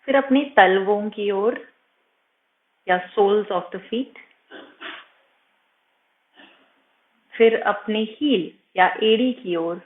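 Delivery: slightly softened meditation voice with long pauses; guided meditation. Acted. Yoga teacher guiding students' attention from toes upward, calm meditation voice. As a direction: guide attention gently through the body, unhurried.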